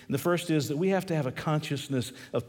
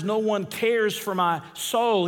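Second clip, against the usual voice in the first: slow, high lament; preacher's impassioned cry as the psalmist; 5 semitones higher, slower than usual. Acted. Preacher voices David in lament, crying out slowly. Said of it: "David cries out these words".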